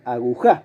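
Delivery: "aguja" dicho agu-JÁ, aguda; acento en la última. Shown as a demonstration. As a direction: carga el golpe en la JA final de "aguja". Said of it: "si la sílaba tónica fuera la tercera". (agujá, con la última sílaba tónica)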